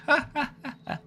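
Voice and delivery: high, hollow "ha, ha, ha" courtesy laugh; fake courtesy laugh. Shown as a demonstration. Showing viewers a fake courtesy laugh, high and hollow. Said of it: "like a courtesy laugh".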